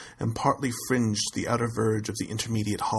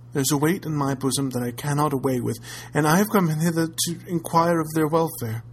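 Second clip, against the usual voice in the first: pleading lady; 3 semitones higher than usual. Acted.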